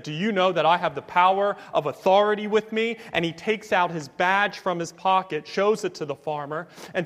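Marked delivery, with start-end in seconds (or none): 0.0-3.0 brisk, mildly indignant demand; mock furious. FBI agent rebuking an old farmer, mock furious. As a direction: pull rank with a touch of anger. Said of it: "responded furiously and said".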